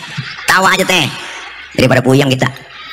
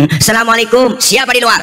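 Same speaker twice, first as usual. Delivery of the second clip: raised-pitch calling through a door; higher acted voice at the door; doorstep call; 3 semitones higher than usual. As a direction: call out to whoever is outside.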